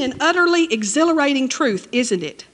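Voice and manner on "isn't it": ordinary talk, nothing marked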